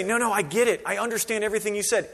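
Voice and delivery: mock confident. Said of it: "He doesn't say".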